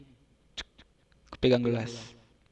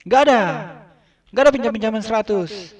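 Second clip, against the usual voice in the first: flat refusal; 6 semitones higher, 5 dB louder, faster than usual. Retold or imitated. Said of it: "Terus dia jawab".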